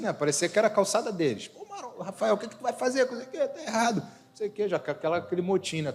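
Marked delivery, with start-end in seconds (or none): 1.5-4.0 neighbours fussing. Retold or imitated. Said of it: "os vizinhos".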